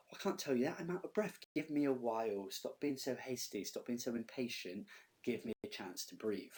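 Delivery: lightly acted put-upon pleading; protesting Nurse. Teacher paraphrasing the Nurse putting Juliet off, mildly exasperated. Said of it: "So she says to Juliet".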